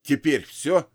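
terse, clenched question; through gritted teeth. Acted. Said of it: "процедил я сквозь зубы". (сквозь стиснутые зубы)

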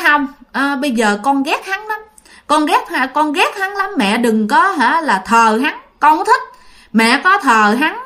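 a mild mock outburst, pitch jumping up; half-acted grudge, rising in pitch; resentful son. Dead son telling his mother he hates the girl, mildly heated. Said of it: "Thì anh B mới tức lên".

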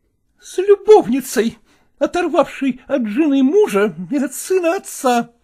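wife lashing out from the bed; accusing wife. Acted. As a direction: hurl the insult at the mistress.

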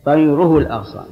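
طيره الأغصان with "ru" in طيره; damma on the r. Shown as a demonstration. Teacher showing the joined reading, طيره said with damma. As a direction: join it as "tayruhu l-aghsan", u after r. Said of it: "ضم الراء".

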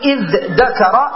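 "إذ ذكر" as idh-dakara, dh then d; intermediate form. Shown as a demonstration. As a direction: keep dh and d apart in "إذ ذكر". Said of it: "فقيل إذ ذكر".

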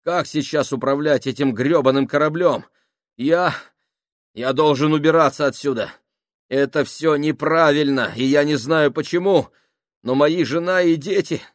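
nervous plea building to a frantic, high, loud cry; panicked pleading. Acted. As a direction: start uneasy, end in near-hysterical panic. Panicking sailor pleads with crew.

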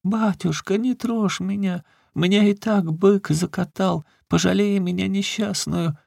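put-on very high, pleading old crone voice; keen and beg like a frightened beggar woman; a pitiful high old woman's wail. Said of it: "Старуха вдруг заголосила".

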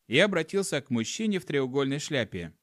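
ordinary delivery

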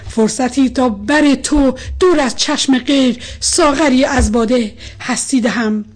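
impassioned love poem, rising and subsiding; measured verse reading, strong openings, softened line endings; poetry recitation. A narrator's reading. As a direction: recite with feeling, long pauses between verses.

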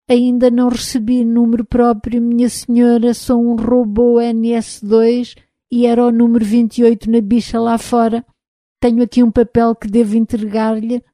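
an unsure robot answering politely; timid robot voice. Acted. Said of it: "numa voz baixa e insegura". (voz de robô tímido e inseguro)

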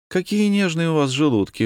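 smirking. A narrator's reading. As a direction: tease him for his delicate stomach. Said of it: "усмехнулась Василиса".

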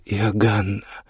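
gentle, slow reply; very gently. A narrator's reading. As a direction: break it to her tenderly. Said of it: "очень мягко ответил".

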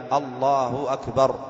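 "الله أكبر" said slowly and distinctly; slow, careful "الله أكبر"; clear articulation. Shown as a demonstration. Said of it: "أن يبينها".

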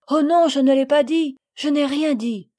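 earnest denial. A narrator's reading. Camille assures Sophie she told nothing, earnest denial. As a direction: deny it quickly and earnestly.

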